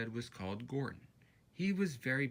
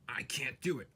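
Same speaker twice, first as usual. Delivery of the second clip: Gordon puffing. A narrator's reading. Gordon straining uphill, weary puffing chant. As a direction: sigh it out like a tired big engine. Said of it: "puffed Gordon".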